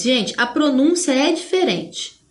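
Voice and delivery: usual speaking voice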